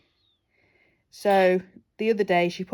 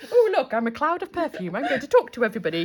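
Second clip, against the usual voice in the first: chatty perfume cloud; 5 semitones higher, faster than usual. Pretend.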